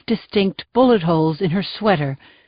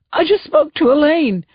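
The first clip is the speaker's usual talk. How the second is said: sobbing; 7 semitones higher than usual. Acted. Grieving husband telling the sergeant, sobbing. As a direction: break down as you say it. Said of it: "he sobbed".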